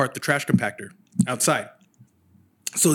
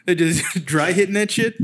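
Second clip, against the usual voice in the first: laughing; 4 semitones higher, 3 dB louder than usual. Real, not acted. Cracking up at own phrase.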